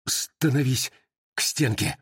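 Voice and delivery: drawn-out, stammered order; stammering drawn-out shout. Acted. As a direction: force the order out through a stammer. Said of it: "протяжно заикаясь, крикнул Бунчук".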